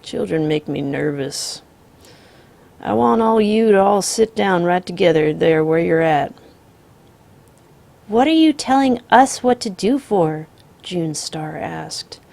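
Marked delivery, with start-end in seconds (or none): 0.0-6.3 calm drawling outlaw. Acted. The Misfit voiced in story. 8.1-10.5 put-on sassy child. June Star talks back.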